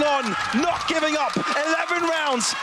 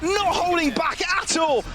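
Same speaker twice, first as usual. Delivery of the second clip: esports caster; 4 semitones higher, slower than usual. Real, not acted. Caster shouts big play.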